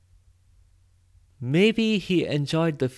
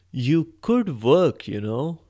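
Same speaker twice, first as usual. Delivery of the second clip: tentative suggestion; slower than usual. Acted. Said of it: "Hans tried".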